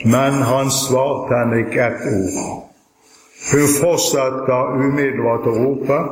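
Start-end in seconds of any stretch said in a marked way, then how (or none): 0.1-2.4 slow, weighty stress on "ikke ett ord"; underlined sentence. Shown as a demonstration. Preacher underlining the key verse for listeners, slow and emphatic. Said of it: "sette en kraftig strek under en setning".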